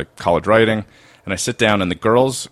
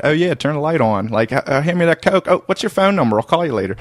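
broad Baltimore accent, pitched up high; old Baltimore accent; 8 semitones higher than usual. Shown as a demonstration. Young guy in Maryland showing friends his old Baltimore accent. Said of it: "that's how I used to sound".

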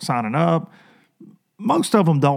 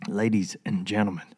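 ringmaster; 5 semitones lower, 6 dB quieter than usual. Acted. Repeats intro in put-on voice.

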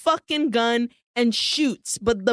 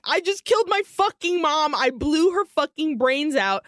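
retold panic, pitched up; freaking out; 4 semitones higher than usual. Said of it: "freaks out".

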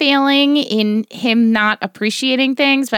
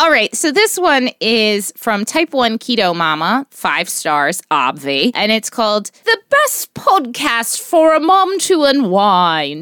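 lightly put-on British accent for a review; a hint of a British accent, reading out the title. Podcast mom reads a listener review in a light British accent. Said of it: "Do your British accent".

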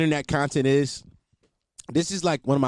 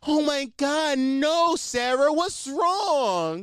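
much higher, gushing fake-worried friend voice; mock concerned friend; 12 semitones higher, much slower than usual. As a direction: ham up a friend fussing over the crier. Mocking a friend's concerned call.

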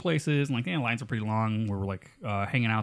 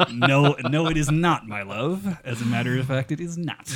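emphatic, louder mock-indignant reply; mock denial; 3 semitones higher, 6 dB louder than usual. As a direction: deny it with playful insistence. Retold mock-formal denial to girlfriend.

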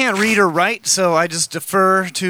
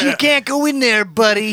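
lightly mocking Indian accent, higher; imitating an Indian accent, raised pitch; 4 semitones higher than usual. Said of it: "that's a real stereotypical Indian voice".

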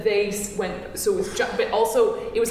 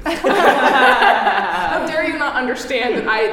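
slow, raised, laughing indignation; mock outrage; 5 semitones higher, 5 dB louder, slower than usual. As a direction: play the offended diva half-joking. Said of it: "which made me actually really angry".

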